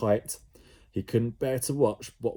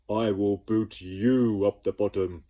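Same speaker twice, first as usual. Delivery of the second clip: louder blob voice; sloot mocking; 5 dB louder than usual. A narrator's reading. The sloot mocking Jemima, louder. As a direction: throw her words back. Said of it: "replied the sloot".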